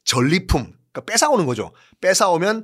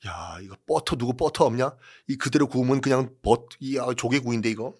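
soldier's quiet muttering; 3 semitones lower, 6 dB quieter than usual. Acted. Soldier muttering about clams.

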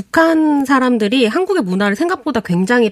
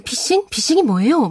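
puzzled; 7 semitones higher than usual. Retold or imitated. Acting puzzled North Korean woman.

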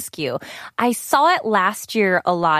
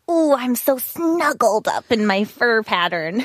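snuggled up. Acted. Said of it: "that look of".

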